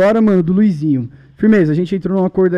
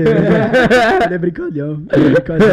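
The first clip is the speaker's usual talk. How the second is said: laughing through the words; giggling it out; 2 semitones lower than usual. Real, not acted. Laughs while defending friend.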